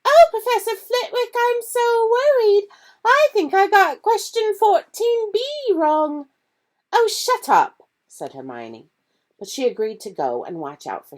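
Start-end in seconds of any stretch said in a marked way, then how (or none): 0.0-6.3 hammed-up worried schoolgirl; mock high voice. Ron mocking Hermione to her face, high and whiny. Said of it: "he put on a high voice". 6.9-7.9 much higher, louder irritated snap; exasperated girl; annoyed Hermione. Acted. Hermione telling Ron to stop teasing, high and irritated.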